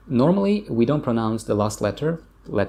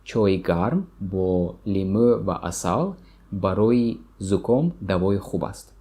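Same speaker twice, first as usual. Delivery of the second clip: slow repeat; slower than usual. Shown as a demonstration. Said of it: "One more time".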